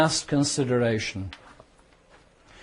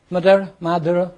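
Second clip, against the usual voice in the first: calling a name; 4 semitones higher, 5 dB louder, faster than usual. Real, not acted.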